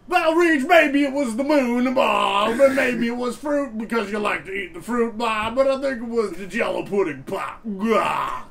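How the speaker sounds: very high, loud, slow rambling shout; Bill Cosby impression. As Cosby answering the quiz, squeaky shout. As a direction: ramble in a squeaky, yelling goof voice. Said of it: "and then I would go".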